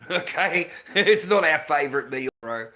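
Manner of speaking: laughing through the words; amused chuckling. Real, not acted. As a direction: say it while cracking up a little. Chuckles while rejecting peanut butter meal.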